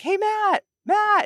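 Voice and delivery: high, loud call across the golf course. Retold or imitated. Friend calling out to a man across the golf course, loud call. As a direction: yell his name across the course. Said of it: "So I yell over".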